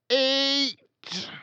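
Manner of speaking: high, loud barked order; shout. A narrator's reading. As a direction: bark the single word. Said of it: "she shouted".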